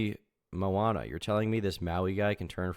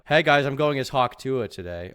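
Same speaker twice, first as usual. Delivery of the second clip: cheerful costume-party voice; 8 dB louder than usual. Retold or imitated. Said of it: "You can just say".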